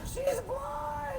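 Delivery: high laughing shout; shrieking through laughter. Retold or imitated. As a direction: blurt it out while cracking up. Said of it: "He goes".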